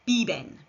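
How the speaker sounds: "biben" with b sounds, falling; model Spanish verb. Shown as a demonstration. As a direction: say "biben" clearly for learners. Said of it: "Repeat after me".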